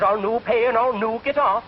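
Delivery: high, defiant Scotsman; stubborn Scottish accent. Acted. Scotsman refusing the conductor, defiant Scottish accent. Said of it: "The Scotch says".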